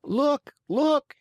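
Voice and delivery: high excited cry, rising on each look; wild yell. Acted. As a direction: Harlequin spots Pinocchio, yelling wildly to the audience. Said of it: "yelling wildly at the same time".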